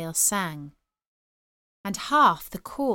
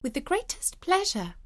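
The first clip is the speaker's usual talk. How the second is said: nightingale character; 9 semitones higher than usual. Acted. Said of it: "said the nightingale".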